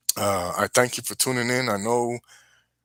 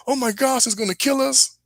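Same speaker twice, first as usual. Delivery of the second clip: mock panic; 12 semitones higher than usual. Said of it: "They were screaming and crying".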